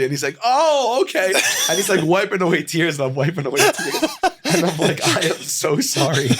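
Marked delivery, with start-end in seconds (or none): 0.4-1.3 high surprised "Oh, okay"; imitating surprise. Host's startled reply retold. 1.7-6.3 apologising through real laughter; laughing. Real, not acted. Laughs while retelling apology.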